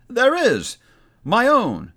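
high, loud otherworldly spirit voice; echoing ethereal energy being. Acted. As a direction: speak as a booming ghostly spirit. Spirit answers Scrooge.

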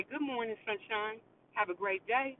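soft, quiet good-morning wish; gentle morning greeting. Retold or imitated. A radio host softly wishing listeners a good day. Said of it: "you just need somebody to say".

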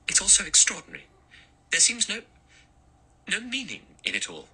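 put-on high, distressed young woman's voice. A narrator's reading. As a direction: Vera baffled and frightened.

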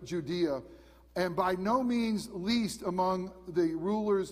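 measured, solemn reading of the Gospel; scripture reading. Acted. Pastor reading scripture to his congregation, solemn and measured. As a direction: read the passage to the congregation with reverence. Preacher reads Matthew aloud.

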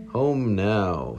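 monster claim. Acted. Goo monster.

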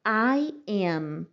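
"am" ending on a closed-lip m; closed-mouth am. Shown as a demonstration. Teacher shows the humming m in "am". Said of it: "Fecha a boca no am".

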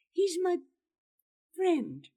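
"friend" said in full, loud and falling; earnest protest. Acted. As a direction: insist sincerely that he is a friend. Gerard earnestly defends Leff.

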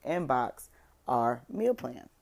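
slowed, words round a sip of water; while sipping a drink. Real, not acted. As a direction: talk between sips of water. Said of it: "I'm drinking water".

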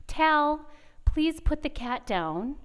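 mom losing patience, calmly then yelling her son's name; patient to shouting. Retold or imitated. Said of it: "I'm being dramatic for you guys".

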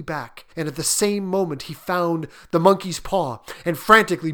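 tense, climactic storytelling; dramatic narration of a frantic race; story narration. A narrator's reading. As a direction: build the suspense, raising pitch and force.

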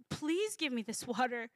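soft, sincere asking; humble plea. Acted. Woman at the well asking Jesus sincerely, soft and humble. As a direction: ask humbly, meaning it. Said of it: "with humility".

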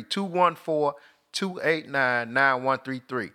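"Two one four two eight nine, nine one three three" read slowly, digit by digit; slow repeat. Shown as a demonstration. Host repeats the store's number slowly for listeners. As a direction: spell the number out slowly so callers catch it. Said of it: "repeats the number slowly".

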